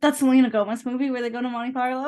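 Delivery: half-crying, shouting with excitement; excited shout. Real, not acted. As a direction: blurt it out, thrilled. Excited about childhood movie.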